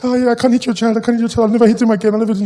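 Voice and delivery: lightly voiced weepy granny; tearful grandmother. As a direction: lament like an upset grandmother. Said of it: "my grandma was there in tears".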